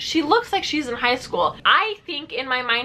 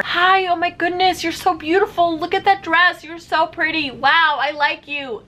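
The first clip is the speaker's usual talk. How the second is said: imitating Ari's greetings; 4 semitones higher than usual. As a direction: play him greeting old friends on the first day of school. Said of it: "Ari is greeting these girls".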